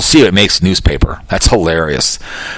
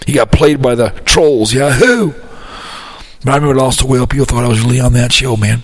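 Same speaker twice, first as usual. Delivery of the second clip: Bill Clinton impression. Caller pranks a radio show as a hint of Bill Clinton. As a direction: ease into a laid-back Bill Clinton. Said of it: "This is Bill Clinton".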